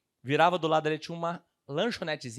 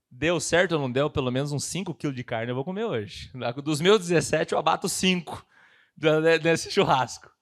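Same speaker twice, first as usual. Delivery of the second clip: excited vow; 8 dB louder than usual. Retold or imitated.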